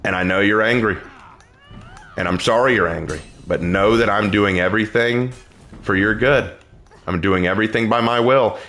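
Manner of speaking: calm him like a loving parent, lightly voiced; God's reassuring voice. Pastor voicing God consoling an angry believer, gentle and reassuring. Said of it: "will say".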